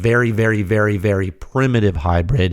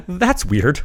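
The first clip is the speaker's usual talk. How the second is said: puzzled laugh; 8 semitones higher, much slower than usual. Retold or imitated. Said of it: "and you were like".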